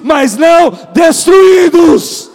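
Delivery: shouted high and loud, drawn out slowly; preacher shouting to the congregation, slow and triumphant. Acted. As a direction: cry it out as the victory line. Climax of Paul's quote.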